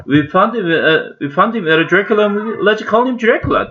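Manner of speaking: put-on high-pitched eager boy; eager young boy. A narrator's reading. Toby proposing a name for the rabbit, high and eager. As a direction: pitch it up like an excited kid.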